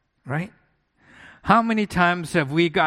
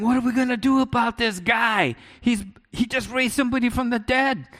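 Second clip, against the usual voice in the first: high-pitched retold panic; fretful mock alarm, pitched up; mock freaking out; 7 semitones higher than usual. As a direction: act out an alarmed crowd, voice raised in pitch but not volume. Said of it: "his people freaking out".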